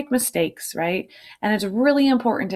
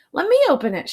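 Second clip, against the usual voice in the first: high, loud eager shout; 12 semitones higher, 6 dB louder, much faster than usual. A narrator's reading. Buster shouts at Arthur to open the chest, loud. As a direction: demand your turn. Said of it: "shouted Buster".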